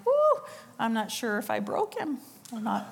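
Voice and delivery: chuckling through the line; amused, half-laughing aside. Real, not acted. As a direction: laugh it off as you say it. Laughing aside at retold moment.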